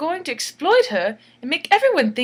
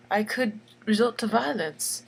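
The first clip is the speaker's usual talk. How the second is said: mock crying whisper; 3 dB quieter than usual. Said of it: "She's crying".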